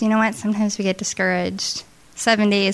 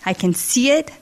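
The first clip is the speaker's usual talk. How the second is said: rising; 3 semitones higher than usual. Retold or imitated. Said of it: "God is setting this up".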